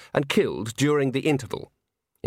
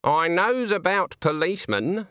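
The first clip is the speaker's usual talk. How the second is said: put-on slow, higher-pitched rustic old woman; a knowing old witch laying down her view; Granny; 7 semitones higher than usual. A narrator's reading. Old witch sizes up a supposed policeman, sceptical. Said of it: "said Granny".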